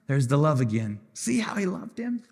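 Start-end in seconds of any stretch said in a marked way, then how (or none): 1.1-2.2 higher and softer, moved; tender repeat. Shown as a demonstration. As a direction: say it again, touched and tender.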